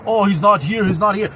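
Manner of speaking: a mild mocking imitation of an evasive excuse, each not rising. Vlogger mocking the doorkeeper's excuse, lightly mimicking. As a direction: lightly mimic someone dodging the question. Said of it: "don't go about the bushes".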